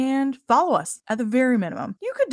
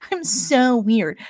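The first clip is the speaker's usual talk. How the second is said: mocking quote; 3 semitones higher, slower than usual. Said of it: "It's like".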